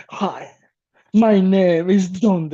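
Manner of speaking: slow, light impression of a Mexican tough guy; mock Mexican Dick Tracy. Mocking his co-host with a slow, lightly voiced Mexican detective. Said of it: "you're a Mexican Dick Tracy".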